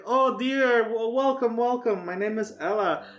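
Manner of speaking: put-on lightly high sweet old lady; a hint of a kindly grandma; frail shaky old whisper. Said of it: "She's like".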